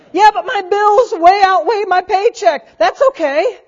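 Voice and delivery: a hint of a worried churchgoer; doubting listener. To the preacher, a mild worried objection. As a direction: lightly voice the one who objects.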